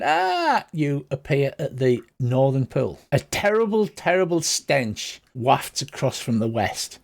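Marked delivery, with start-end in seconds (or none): 0.0-0.6 high-pitched mock scream; held, high cry at modest volume; put-on screaming "ah". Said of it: "still screaming".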